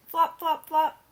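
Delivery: loud, high flop flop flop; flopping sound words. Acted. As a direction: bounce out each flop. Sound words read aloud.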